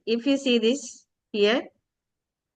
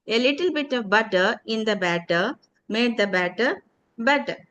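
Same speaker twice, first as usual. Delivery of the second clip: tongue twister repeat. Shown as a demonstration. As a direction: recite the twister once more in full. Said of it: "Can you try it?".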